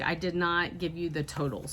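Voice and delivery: talking around a cough drop; words slurred by a lozenge; cough drop in mouth. Real, not acted. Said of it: "I have a cough drop in my mouth".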